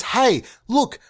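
bright upward hey look; a light mock hey look; mock cheerful hey. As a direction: toss it off cheerfully. Mock bit repeated hey look.

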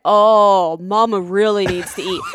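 low mock-soothing voice; imitating husband. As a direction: mimic his condescending calm. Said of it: "And he's like".

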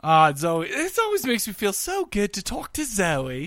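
badly faked British accent; terrible British accent. Host gushing about caller Zoe, terrible British accent. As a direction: put on a clumsy British accent. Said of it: "that was terrible British accent".

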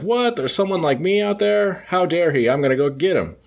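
high-pitched, indignant villain voice; Gargoyle's outrage. Retold or imitated. Retelling a comic, the Gargoyle hears of the Hulk: high indignant villain voice. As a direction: squeak out the villain's jealous outrage. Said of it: "the Gargoyle's like".

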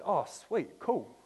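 high, bright mock cheer at the news; excited relief. Mechanic phones, speaker answers with excited relief. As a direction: sound thrilled the car is fixed. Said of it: "I said".

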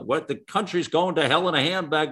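grown-ups moaning the country's going to hell, mock lament; mock doom-saying elder. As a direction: ham up the old folks' gloom, slowing down. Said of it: "I heard that a lot".

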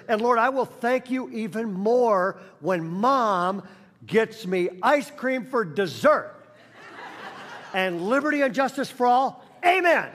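put-on cheeky boy finishing grace; child praying. Little boy finishing his prayer, half laughing.

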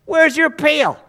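high-pitched, incredulous question; incredulous challenge. Acted. Woman at the well challenging Jesus, incredulous.

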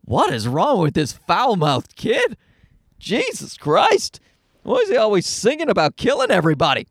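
exaggerated disbelief, stretched then rushed; appalled onlooker. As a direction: imitate scandalized strangers judging a kid. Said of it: "people are like".

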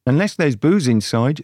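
put-on lightly slurred drunken speech; a touch of acted drunkenness. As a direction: slur it a little, as if tipsy. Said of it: "slurred Gretel drunkenly".

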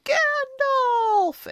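high-pitched, drawn-out mock scream. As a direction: cry out the name in hammed-up despair. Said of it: "gonna run out of there screaming".

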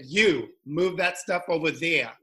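put-on bossy order in a Boston accent. Manager orders a new salesperson around, Boston accent. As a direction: bark it lightly like a Boston manager. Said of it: "Was that the Boston accent".

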